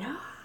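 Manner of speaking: high, held-back mock scream; retold scream. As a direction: imitate screaming without the volume. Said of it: "screaming my head off".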